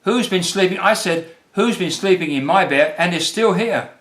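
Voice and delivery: hammed-up Baby Bear scream. A narrator's reading. Baby Bear finding Goldilocks in his bed, mock scream. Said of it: "Baby Bear screamed".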